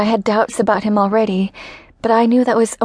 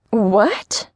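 shocked. Acted. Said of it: "Louise's voice sounded as shocked".

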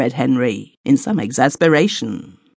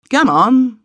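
much higher, louder call; shouted; 10 semitones higher, 4 dB louder than usual. A narrator's reading. Joe shouting to the man in the kitchen. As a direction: call through the door to the kitchen.

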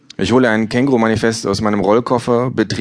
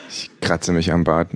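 plain reading voice

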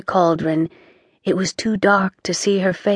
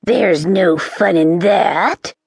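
sneered; slower than usual. Acted. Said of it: "she sneered".

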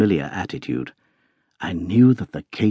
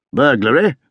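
higher, startled question; startled cry; 5 semitones higher, 4 dB louder than usual. A narrator's reading. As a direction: cry out in surprise. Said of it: "cried the Colonel".

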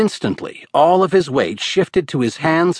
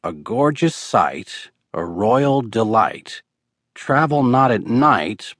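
reading a riddle aloud. A narrator's reading. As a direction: read the riddle like a chant. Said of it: "which Murphy read aloud".

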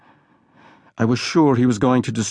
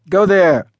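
higher, louder shove of a command; a louder bullying boy; rough order; 7 semitones higher, 6 dB louder than usual. A narrator's reading. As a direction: push him toward the horse. Boys push him to horse.

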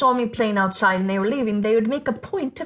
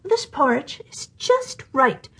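happily; 4 semitones higher, slower than usual. Acted. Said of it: "she said happily".

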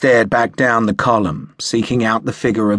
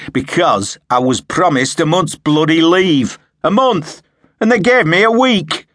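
building from angry to a much higher, louder furious cry; harsh outburst; 8 semitones higher, 6 dB louder than usual. A narrator's reading. Sharp rants to Harper about his lost leave, building fury. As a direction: let the grievance boil over, climbing. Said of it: "Sharp said harshly".

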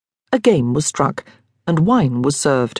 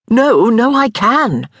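stubborn tipsy insistence, pitched higher and louder; insisting; 6 semitones higher, 4 dB louder, slower than usual. A narrator's reading. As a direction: refuse to be talked out of it. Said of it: "Daniel insisted".

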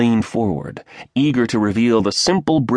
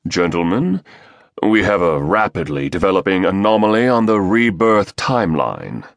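British baritone. Acted. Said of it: "a British baritone replied".

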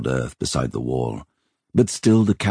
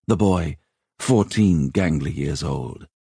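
usual speaking voice

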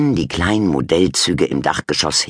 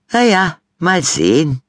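high, louder diplomatic mum voice; 5 dB louder than usual. A narrator's reading. Mum diplomatically answering daughter at dinner, high voice. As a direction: gently dodge the question as mum. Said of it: "erwiderte Mama diplomatisch".

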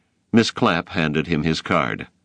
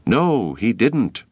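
crying out in support; 6 semitones higher, slower than usual. A narrator's reading. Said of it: "the boys of grade five cried".

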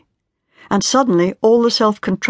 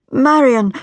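urgent call; 9 semitones higher, 5 dB louder than usual. Acted. Hilary calls out to her.

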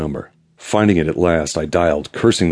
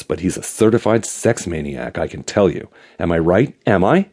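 lightly voiced gossipy excited man; eager gossip with a slight pout; 2 semitones higher than usual. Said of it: "excitement in his voice was tinged with just a slight pout".

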